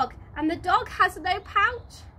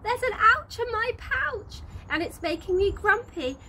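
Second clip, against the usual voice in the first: shout; 7 semitones higher, 3 dB louder than usual. A narrator's reading. Wallaby telling mummy possum his troubles, high whiny shout. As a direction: wail it out like an upset joey. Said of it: "Willoughby shouts".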